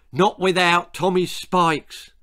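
loud, slow, stubborn cry; bellowing. A narrator's reading. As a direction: dig in and shout it. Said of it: "bellowed the bewildered boy".

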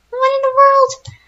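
high, loud and slow, stunned by the chef; shocked. Real, not acted. Gamer sees the creepy chef, shocked high cry. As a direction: gasp it out in disbelief.

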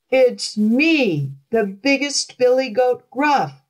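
big goat bellowing at the troll; a bold, strong shout back at the troll. Acted. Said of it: "shouted the billy goat in a voice almost as loud".

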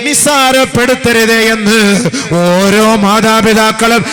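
high, loud, slow chanting preacher's voice; sermon delivered at full force, stretched slow; full-force preaching. Acted. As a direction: preach it out, drawn long and loud to the hall.

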